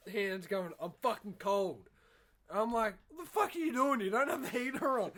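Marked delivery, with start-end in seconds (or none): 0.8-1.9 a hint of a whiny hungover brother, a bit louder; imitating brother. 3.1-5.1 higher, louder mock shout at a brother; mock yell. Retold yelling at brother.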